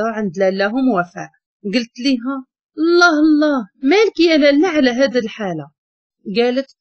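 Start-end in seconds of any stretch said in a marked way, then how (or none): 2.8-5.7 shocked exclamation. Acted. Narrator shocked to find the bride crying, surprised cry. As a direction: gasp it out at the sight of her.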